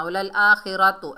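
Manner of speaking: वलल आखिरतु said with a short, flat final vowel; wrong reading. Shown as a demonstration. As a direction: demo the mistaken आखिरतु. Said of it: "ऐसे नहीं पढ़ना".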